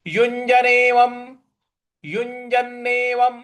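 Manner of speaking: युञ्जनेवं said slowly and carefully, syllable by syllable; Sanskrit pronunciation demo. Shown as a demonstration. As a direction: model युञ्जनेवं with a clear nasal ञ् before ज. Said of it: "देखिए यहां पर युञ्".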